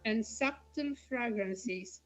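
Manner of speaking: measured poetry reading, paused phrase by phrase; poem recitation. Acted. Poet reading a poem dedicated to her father, measured recitation. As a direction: read it as verse, lingering between images.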